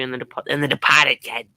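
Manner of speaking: dropped-r Boston "Depahted"; light Boston imitation; Boston accent. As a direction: do a hammy Boston "kid". Doing Boston accent of film.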